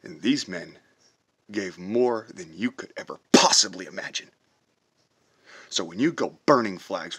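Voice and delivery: loud angry shout at flag burners; shouting, fed up and furious. Real, not acted. Veteran shouting at flag burners, furious and loud.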